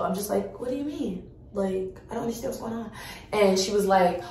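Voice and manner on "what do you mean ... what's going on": angelic polite confusion. Retold or imitated. Customer gently questioning the pharmacy tech, soft innocent confusion. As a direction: play the sweet, baffled customer quietly. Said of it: "Give me an angel".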